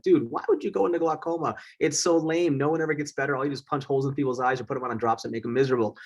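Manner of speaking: scoffing fellow doctors mock glaucoma as lame; mocking colleagues. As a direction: tease him for a lame choice.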